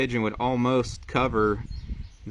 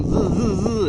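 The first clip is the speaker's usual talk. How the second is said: knob spinning noise; 9 semitones higher than usual. Shown as a demonstration. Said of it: "If you just go".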